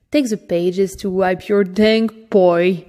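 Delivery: put-on a mild fierce growl at the boy; understated menace, pressing the words; a touch of fierce threat from the cage. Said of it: "fierce-like".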